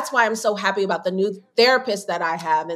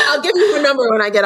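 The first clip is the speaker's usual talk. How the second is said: laughing; 4 semitones higher, 4 dB louder, much faster than usual. Real, not acted. Joking offer, laughing.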